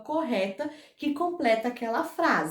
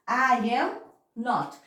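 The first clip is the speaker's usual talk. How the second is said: slow and careful; much slower than usual. Shown as a demonstration. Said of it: "O not sempre vai vir depois do verb to be".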